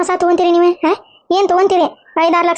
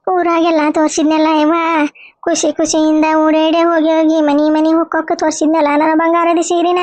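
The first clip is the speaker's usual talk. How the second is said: wailing lament. Acted. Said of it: "ನೀ ಯಾಕೆ ಇಷ್ಟ್ ಅಳಾಕತ್ತಿದಿ".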